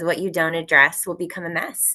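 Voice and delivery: ordinary delivery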